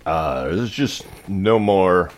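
slow, halting announcement with ums and pauses; lightly voiced airline pilot. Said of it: "my pilot voice".

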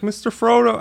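mock starstruck squeal of recognition; starstruck blurt. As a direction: blurt it out like an excited fan. Blurted greeting to the actor.

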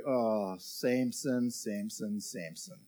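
fading disappointed sigh of a mum. Shown as a demonstration. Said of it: "So in your best mum voice".

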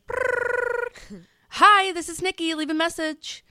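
high, bright-toned recorded greeting with a phone trill; voicemail greeting. Retold or imitated. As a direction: chirp it out like an answering machine. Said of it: "and it's like".

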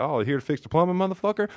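high, taunting voice for the pit bull; lightly hammed-up dog voice; mock menacing dog voice. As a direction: voice the dog as a sneering thug. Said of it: "He's like".

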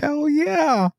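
high-pitched, drawn-out excited whoop; eager cheering. Retold or imitated. Marines volunteering to drive the vehicle, eager cheering. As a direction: mimic eager young troops jumping at it.

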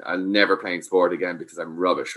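mock the sulking loser gently; mopey sulking kid. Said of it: "curled up in the corner saying".

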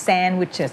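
"sandwiches" stressed lightly on SAND, falling after; light first-syllable stress. Shown as a demonstration. Teacher asks student to repeat, "sandwiches" lightly stressed on SAND. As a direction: step gently down from SAND in "sandwiches". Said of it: "stress มันแค่กระโดดขึ้นนิดเดียว".

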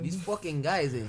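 hammed-up Canadian accent with tagged "eh"; mock Canadian accent. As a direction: grumble like a put-out Canadian, lightly. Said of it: "accurate we are on our Canadian accents".

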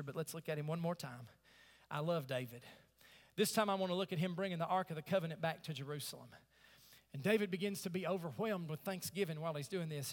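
low, soft sermon narration; quiet storytelling. Real, not acted. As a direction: tell it softly, almost confiding.

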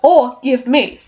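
lightly voiced lion, timid and stammering; Cowardly Lion. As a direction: read the lion's lines with a nervous stammer. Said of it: "I am the Cowardly Lion".

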